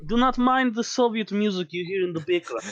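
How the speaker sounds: put-on light, terrible Russian accent, insisting; hammy Russian protest. Sig insisting it's whiskey, in a terrible Russian accent. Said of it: "Just terrible Russian accent".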